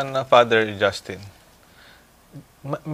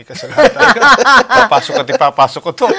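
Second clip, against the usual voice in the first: excited mock vow; 10 semitones higher, 13 dB louder, faster than usual. Mock Japanese taking the blame.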